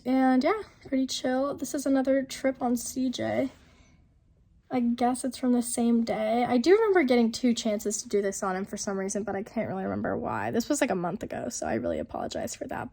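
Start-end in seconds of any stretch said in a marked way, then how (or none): 1.5-12.9 hoarse, sick-sounding voice. Real, not acted. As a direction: talk through a sore throat. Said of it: "this permanent sick voice".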